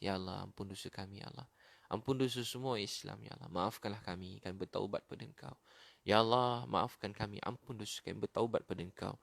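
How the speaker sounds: hushed plea for forgiveness; prayer of repentance. Real, not acted. (doa taubat memohon ampun)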